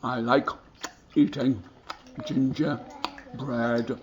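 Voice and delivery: low drawn-out munching voice; a cow with a mouthful of treats; slow, soft contented cow. Acted. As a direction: savour every word like a happy cow. Cow savouring gingerbread.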